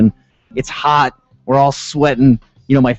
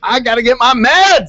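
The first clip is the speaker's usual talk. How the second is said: mock frantic lady; 10 semitones higher than usual. Voicing the panicking lady.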